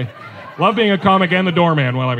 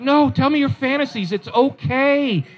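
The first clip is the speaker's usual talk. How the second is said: mock-insistent wife, drawn-out words; lightly voiced wife pressing her point; persistent coaxing; slower than usual. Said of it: "she kept persisting".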